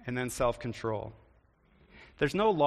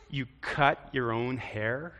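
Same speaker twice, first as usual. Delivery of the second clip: slow, amused, a laugh in it; slower than usual. Shown as a demonstration. Preacher showing a friendly take, amused. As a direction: marvel at it with a chuckle. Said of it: "It's a little different".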